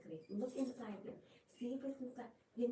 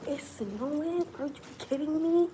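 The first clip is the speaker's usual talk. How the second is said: surprised disbelief; 7 semitones higher, 6 dB louder than usual. Real, not acted. Discovers it is snowing.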